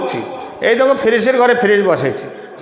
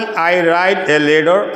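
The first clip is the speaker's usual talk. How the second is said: drawn-out teaching read; slow model sentence; much slower than usual. Shown as a demonstration. Teacher reminding class of first sentence slowly. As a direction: lay it out word by word. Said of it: "প্রথমে বলছিলাম".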